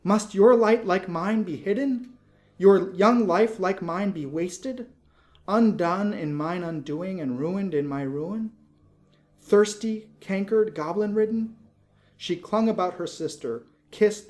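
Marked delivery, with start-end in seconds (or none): 0.0-11.6 high, loud, distraught questions; anguished alarm. Acted. Laura fearing for her sister, high loud distraught cry. Laura horrified at Lizzie's sacrifice.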